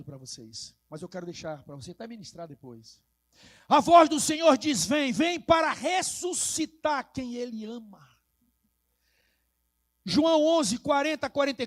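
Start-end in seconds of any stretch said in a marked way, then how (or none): 3.7-8.1 loud opening proclamation; rousing preaching. Acted. Preacher announcing that God calls to resurrect, rousing proclamation. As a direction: launch the declaration out to the church.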